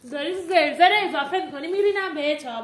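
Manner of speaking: loud threatening snap; loud angry warning; angry threat. Real, not acted. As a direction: threaten him hard. Girl threatening boyfriend.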